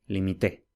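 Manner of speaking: "límite" said as li-mi-TE, stress at the end; final-syllable stress. Shown as a demonstration. Teacher showing Spanish stress contrast, "límite" as li-mi-TE. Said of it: "por ejemplo".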